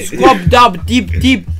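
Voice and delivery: slow, sing-song alien gibberish; alien language. Pretend. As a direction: chant nonsense alien words slowly. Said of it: "some of their lingo".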